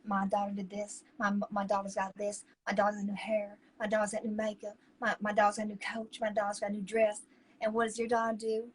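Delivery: rattling off brags a bit fast; lightly mocked boastful mother; bragging pageant mama. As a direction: list the daughter's wins smugly. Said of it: "bragging about their".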